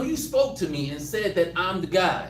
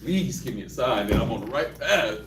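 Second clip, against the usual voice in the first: high pleading mock prayer, building; desperate prayer; 9 semitones higher than usual. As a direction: beg the Lord, voice climbing higher. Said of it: "I'm like".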